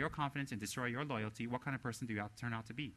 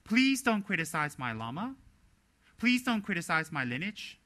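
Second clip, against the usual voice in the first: very nice; 3 semitones higher, 6 dB louder than usual. Shown as a demonstration. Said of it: "say very nicely".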